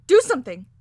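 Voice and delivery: loud, stammering plea for help; high, desperate yelling; panicked wailing. A narrator's reading. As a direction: cry out frantically, building in force. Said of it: "she wailed pathetically".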